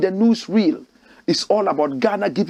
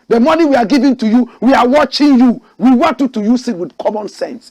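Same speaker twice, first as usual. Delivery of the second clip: mocking America; 2 semitones higher, 4 dB louder than usual. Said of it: "How dare America come to Ghana and say".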